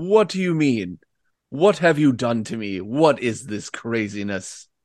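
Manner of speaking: possessing demon voice. Voicing the demon that has just possessed a player's character: voice of the possessing demon. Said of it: "he's speaking into your head".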